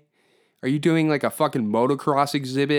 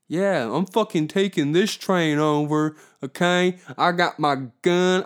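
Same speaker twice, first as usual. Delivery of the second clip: hammed-up bandit boast, higher and louder; old-west train robber; 5 semitones higher, 3 dB louder than usual. Mocking masked protester playing train robber, hammed-up bandit voice. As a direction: swagger through it like a cartoon outlaw robbing a train. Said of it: "What are you gonna go do?".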